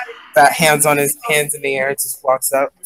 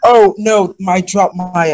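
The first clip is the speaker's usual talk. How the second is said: mildly hammed-up oh-no, higher and louder; feigned dismay; 6 semitones higher, 5 dB louder, slower than usual. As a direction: act caught out, covering with a fib. Player acts his character's flustered lie.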